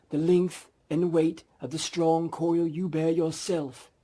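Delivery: doom-laden spectre, stretch it out; ghost voice. Acted.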